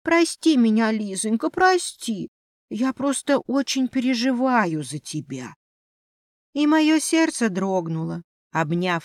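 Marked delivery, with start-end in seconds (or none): 0.0-5.5 виноватый мышонок. Acted. Мышь виновато извиняется.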